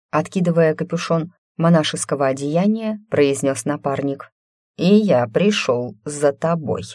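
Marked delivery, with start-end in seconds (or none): 4.8-6.8 slow, ominous threat; menacing. Acted. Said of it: "каким тоном он это произнёс".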